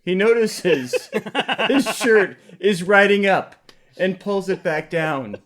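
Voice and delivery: screenplay stage directions. Acted. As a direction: read the action out with mock drama.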